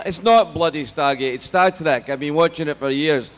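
loud, slow, indignant Scottish father; thick Scottish accent. Retold or imitated. Dad overruling son on show's name, indignant Scottish. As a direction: insist crossly as a Scottish dad. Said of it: "my parents have a very thick Scottish accent".

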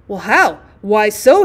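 gereizter Ausruf, lauter; imagined doctor crying out. Pretend. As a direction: spiel den polternden Doktor an. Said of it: "he will cry".

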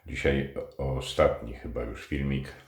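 talking around a pipe stem; words through clenched teeth on a pipe; pipe in mouth. Real, not acted. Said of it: "z fajką w zębach".

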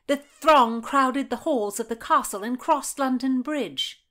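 high, loud nasal twang; nasal Madge. A narrator's reading. Madge taunts Margaret about Anne's lovers, nasal twang. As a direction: crow it high through the nose.

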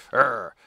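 loud, short pretend "arr"; tough-guy growl, played for fun; mock growl. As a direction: imitate a brawler's growl. Acting big guy standing up to fight.

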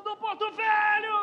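slow, stretched goal yell; drawn-out goal shout. Real, not acted. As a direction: hold the club name long.

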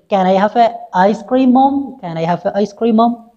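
put-on high, pleading child; begging little boy. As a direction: wheedle like a kid wanting a treat. Boy begs mother for ice cream.

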